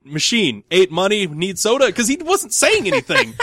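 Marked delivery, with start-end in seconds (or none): 0.0-1.9 broken-English plea. Retold or imitated. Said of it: "my third explanation was, like, literally just like that".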